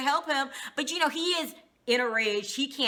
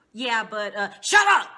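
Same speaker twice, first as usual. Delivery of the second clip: retold shout; 7 dB louder than usual. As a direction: snap it out loud at him. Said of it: "Sana who said it first".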